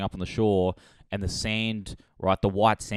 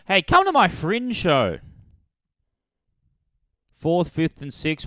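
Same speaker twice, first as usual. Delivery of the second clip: excited plug; 8 semitones higher, 3 dB louder than usual. Real, not acted. Plugging his show.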